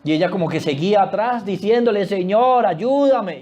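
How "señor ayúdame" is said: imitated cry for help, higher pitched; mildly acted begging; pleading. Mujer siguiendo y rogando atrás. (ruego imitado pidiendo auxilio)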